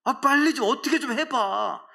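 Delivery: high, impatient goading; mocking taunt. Elijah to the priests of Baal, mocking. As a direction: goad them to hurry up. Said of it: "막 이러면서 조롱했잖아요".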